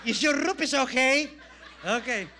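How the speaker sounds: real laughter; laughing. Real, not acted. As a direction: ask it while cracking up. Jokes about lightning striking him.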